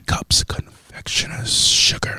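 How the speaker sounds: ASMR whisper. Acted. ASMR whisper recipe reading.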